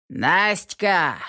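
mild gruff call across the house; gruff shout. A narrator's reading. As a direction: call her from the hallway with a mild bark. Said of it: "гаркнул вдруг в сенях".

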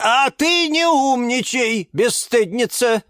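high, slow, indignant telling-off; outraged old-busybody rebuke; scolding shout. A narrator's reading. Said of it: "прикрикнула на неё Розалия Львовна".

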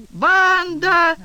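husband bellowing for his wife at full force; bellowing yell. A narrator's reading. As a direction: roar the wife's name across the flat. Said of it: "заорал мужичонка с такой силой".

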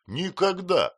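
high, loud emphatic shout. A narrator's reading. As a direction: fling it out, no doubt at all. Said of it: "закричала Пиготи".

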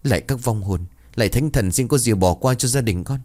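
hurried supplication to the spirits, lightly acted; pleading prayer. A narrator's reading. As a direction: beg the gods as a frightened grandmother. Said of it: "vội vàng chắp tay khấn".

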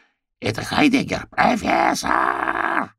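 high, drawn-out call to the owl; high crow cry, stretched out. A narrator's reading. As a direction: call up to the sky for help. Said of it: "закричала она".

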